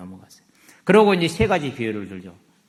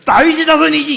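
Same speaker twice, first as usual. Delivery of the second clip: much higher, louder, with a laugh; cocky, laughing answer; smug confidence; 14 semitones higher, 11 dB louder than usual. Acted. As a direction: Pharisees answering Jesus, smug and loud. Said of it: "탁 자신 있게 말합니다".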